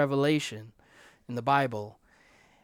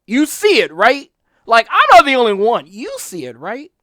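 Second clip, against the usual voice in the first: high and loud insistent appeal; urgent loud plea; pleading complaint to God; 6 semitones higher, 13 dB louder than usual. Retold or imitated. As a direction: press God to admit it. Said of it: "I would tell God".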